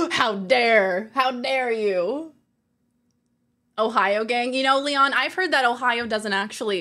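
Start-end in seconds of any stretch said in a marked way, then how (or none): 0.1-2.3 gasping, hammed-up how dare you; mock outrage. Streamer fakes outrage at chat's jab. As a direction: play offended, gasp then protest.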